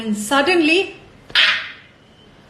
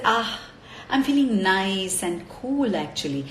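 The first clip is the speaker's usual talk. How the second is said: chilled out; 5 semitones lower, 4 dB quieter than usual. Acted. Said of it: "He was really chilled out".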